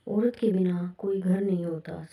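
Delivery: unvoiced whisper, leaning on के; hushed whispered reply. Shown as a demonstration. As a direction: breathe औरत के बिना कोई घर नहीं होता as a secret. Counter-saying whispered after quote.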